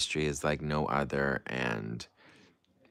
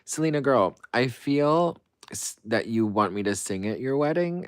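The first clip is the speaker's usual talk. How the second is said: high, fast gushing call to a friend; chirpy high girlfriend voice; 6 semitones higher, 4 dB louder than usual. Retold or imitated. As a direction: squeal it out like a bubbly best friend. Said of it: "I'll be like".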